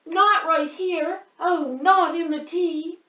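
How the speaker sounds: high, loud horrified cry. Acted. Shadow cries out at the sneezing boy, horrified. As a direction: shriek it in alarm.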